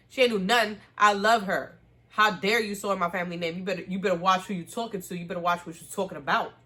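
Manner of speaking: loud, indignant telling-off; loud defensive scolding. Retold or imitated. Colin defending Penelope against Lady Featherington, loud and indignant. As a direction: defend her name and put mom in her place.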